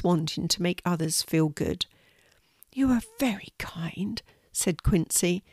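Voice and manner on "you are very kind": high, softened little spider voice; small, touched creature voice; grateful spider. Acted. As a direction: thank him shyly as a tiny spider. Spider thanks the horse.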